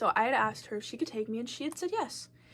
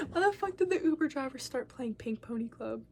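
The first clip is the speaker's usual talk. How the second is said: breathy, half-whispered disbelief; softened, whispery exasperation; incredulous hushed aside; 5 dB quieter than usual. Real, not acted. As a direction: ask it under your breath, amused and baffled. Incredulous aside about driver's song.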